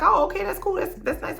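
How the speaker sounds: squeaky high imitation of the lady; lightly mocking falsetto friend; mock high-pitched lady. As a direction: pitch way up to play the breezy lady. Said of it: "the B B C lady's like".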